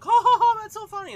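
high, loud hammed-up guffaw; mock laughing. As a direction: ham up a big fake laugh. Imitating friends laughing at joke.

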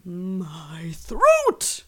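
hoarse stage whisper, choking; croaked whisper. Acted. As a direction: gasp it out like a dying victim. Acting out a movie victim.

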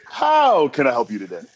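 customer service voice. Shown as a demonstration. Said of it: "customer service voice mode".

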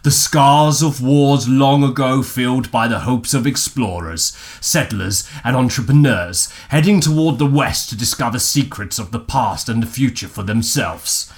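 movie trailer voice. Shown as a demonstration. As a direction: announce it like a film trailer. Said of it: "Begin speaking in movie trailer voice".

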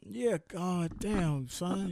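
slow, drawn-out mock-Southern voice; hammed-up Southern parody; bad Southern accent. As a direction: stretch it out like a badly faked Southern accent. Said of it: "the worst Southern accent".

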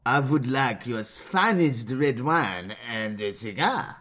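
put-on slow, amateur French accent; badly faked French accent, slow and careful. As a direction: drag it out in a fake French accent. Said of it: "a sentence to say in French".

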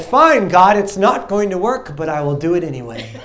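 mock-sassy surrender; grudging prayer. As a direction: give in to God grudgingly. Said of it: "That's how I said it".

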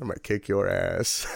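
joking threat through laughter; laughing mock threat. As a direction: laugh while playfully threatening him. Joking threat after surprise win.

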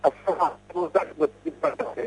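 words cutting out over a weak signal; breaking up phone line. Real, not acted. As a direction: voice dropping out on a bad call line. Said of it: "आवाज cut रही है भाई".

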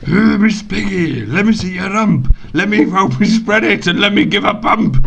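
high, loud Kermit impression. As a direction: puppet frog voice. Kermit voice to Miss Piggy.

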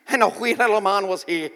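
light Irish lilt; a touch of sing-song Irish brogue; Irish accent. Acted. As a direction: recite it in a playful Irish accent. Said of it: "I say it with an Irish accent".

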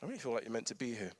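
soft, quick understated auntie; gentle quote. Retold or imitated. Auntie's quiet word to the student, soft and understated. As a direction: say it simply, softly. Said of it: "It was literally".

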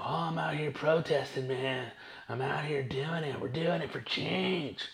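lightly mock the friend bragging. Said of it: "I got a friend that's all about it".

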